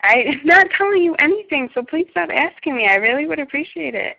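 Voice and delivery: high, sharp, fed-up refusal; exasperated. Real, not acted. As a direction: firmly shut down the questioning. Annoyed at repeated questions.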